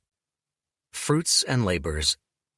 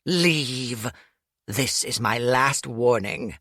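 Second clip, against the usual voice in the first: menacing, patient final warning; a character's last warning, lightly voiced; cold threat; 3 semitones higher than usual.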